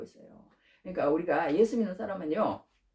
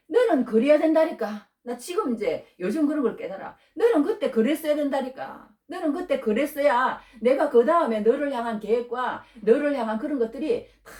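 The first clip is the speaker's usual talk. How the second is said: raised, emphatic voice of God; God's insistent reply; 3 semitones higher, 4 dB louder than usual. Retold or imitated. God answers the preacher's old complaint, insistent and emphatic. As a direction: speak as God, pressing the point higher. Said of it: "하나님이 요즘 그러시더라고".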